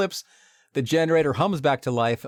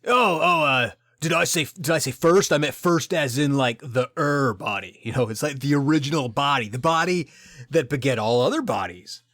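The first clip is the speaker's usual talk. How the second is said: flustered Gale; 2 semitones higher than usual. Pretend. Voicing Gale caught out.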